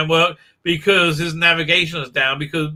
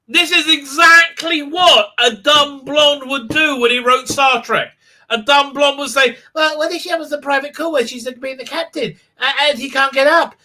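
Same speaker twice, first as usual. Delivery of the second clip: mock dumb blonde; 8 semitones higher than usual. Mocking the show's writer, high ditzy put-on voice. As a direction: play a clueless writer for laughs.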